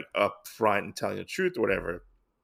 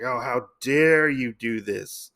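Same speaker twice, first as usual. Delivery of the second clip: slow mock outrage, leaning on "dare"; retold indignation; slower than usual. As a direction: imitate a scolding, stretching out "dare". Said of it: "He gets all mad and whatnot".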